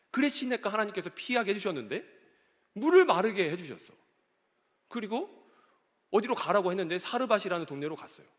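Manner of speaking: acted protest to God, building in pitch; arguing with God. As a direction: build from recounting to baffled complaint. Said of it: "하나님께 따지듯이 이렇게 고백을".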